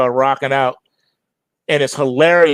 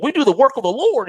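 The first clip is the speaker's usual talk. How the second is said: fake priest; 9 semitones higher, faster than usual. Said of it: "it was like".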